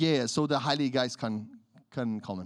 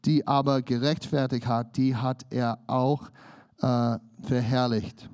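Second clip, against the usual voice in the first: scripture reading. Acted. Reads scripture aloud.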